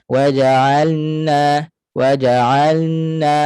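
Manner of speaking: WAJA'ALNA slowly chanted, L sliding into N; lam merging into nun. Shown as a demonstration. Teacher shows the common slip, lam lost into nun. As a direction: blur the L of waja'alna into a long N. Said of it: "macam hilang lam, terus masuk nun".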